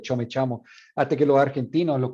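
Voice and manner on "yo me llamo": yo me llamo with yo and llamo said with ch; ch instead of sh. Retold or imitated. Friend avoids the stigmatized sh. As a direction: cho me chamo, avoiding sh. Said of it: "he would say".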